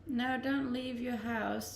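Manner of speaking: ordinary talk, nothing marked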